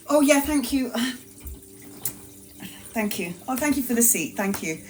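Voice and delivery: breathy hushed thank yous; soft mock gratitude. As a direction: play the sweet pregnant lady, quietly. Acting grateful for the seat.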